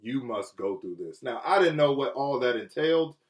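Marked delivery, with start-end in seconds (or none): 0.0-1.2 low, soft, gentle firmness; loving God's voice. Retold or imitated. God speaking to a man in trouble, loving voice. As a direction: say it softly, with love behind it. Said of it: "I felt the love in God saying".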